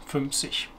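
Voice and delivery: "fünfzig" with final g said as soft ch; ch sound. Shown as a demonstration. Teacher sums up the rule, "fünfzig" with soft ch ending. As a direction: finish "fünfzig" like ich, softly. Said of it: "an I before a G makes the G C H sound".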